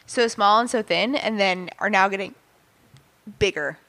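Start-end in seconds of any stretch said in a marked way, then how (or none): 3.4-3.8 hiccuping while talking; words broken by hiccups. Real, not acted. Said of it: "Excuse me, I have the hiccups".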